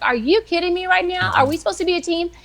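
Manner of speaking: mock outrage at a partner letting her down; livid disbelief. Wife scolding husband about being a team, exasperated and high. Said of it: "I was livid".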